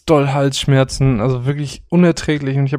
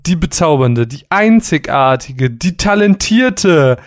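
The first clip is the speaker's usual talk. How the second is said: grand announcer build-up; slower than usual. Acted. Flowery build-up introducing co-host.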